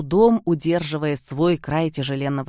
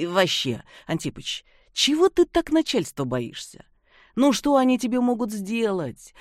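carefree worker. Acted. Seryoga character voice.

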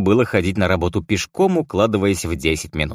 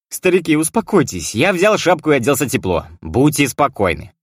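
storming off shouting; 7 semitones higher, 3 dB louder than usual. A narrator's reading. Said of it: "крикнул я на прощание".

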